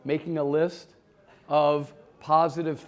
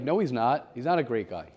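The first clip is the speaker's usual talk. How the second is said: understated contradiction, sinking lower; acted inner naysayer; 4 semitones lower than usual. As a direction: play the doubting side of the brain. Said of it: "your other side of your brain is like".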